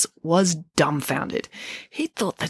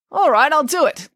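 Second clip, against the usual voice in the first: eager; 8 semitones higher, 5 dB louder than usual. Acted. Hercules eagerly agrees.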